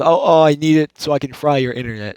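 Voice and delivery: lightly imitated slurry pothead; mock a stoner gamer making a threat; a hint of generic slurry pothead. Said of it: "just pothead voices like you've ever heard".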